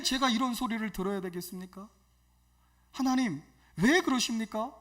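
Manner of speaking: protesting prayer in retelling; resentful complaint to God. Retold or imitated. Evangelist complaining to God at dawn prayer, retold resentment. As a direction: plead your grievance, mildly indignant. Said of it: "하나님 앞에 원망과".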